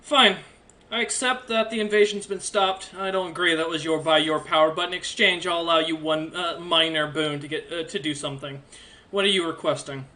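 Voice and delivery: a hint of a stern deity granting a boon; measured, authoritative offer of a favor; stern divine being. Divine stranger offers Hawken a minor boon, stern. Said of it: "looks at Hawken and goes".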